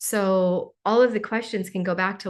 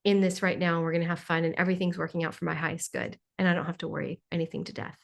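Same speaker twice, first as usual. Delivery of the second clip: carefree reassurance; 4 semitones lower, 5 dB quieter, faster than usual. Retold or imitated. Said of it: "or you're like".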